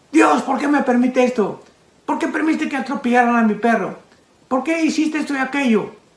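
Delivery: play-acted indignant, angry, demanding tone. Speaker acts out someone questioning god after a tragedy, acting out an angry prayer. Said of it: "estás enojado con Dios".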